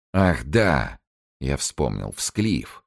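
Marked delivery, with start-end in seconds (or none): none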